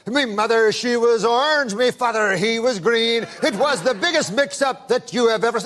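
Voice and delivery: a hint of a jokey Irish brogue, mother and father story; playful Irish storyteller, lightly put on; light Irish accent. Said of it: "you're an Irishman".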